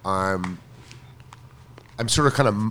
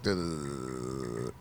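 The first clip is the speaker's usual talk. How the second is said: dopey mouse; 10 semitones lower, 15 dB quieter than usual. Retold or imitated. Mouse in brain voiced.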